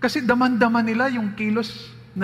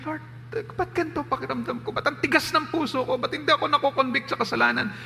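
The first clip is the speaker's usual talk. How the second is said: pleading prayer; 5 semitones higher than usual. Shown as a demonstration. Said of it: "Sabihin mo kay Lord".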